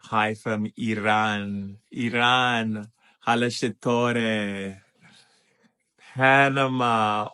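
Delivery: slow, stretched country shout-outs; greeting call. Real, not acted. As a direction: call out each place, drawing it out. Greeting viewers' countries in turn.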